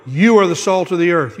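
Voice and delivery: "you" punched at the start; emphatic you. Shown as a demonstration. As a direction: drive "you" home to one listener. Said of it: "This is very emphatic".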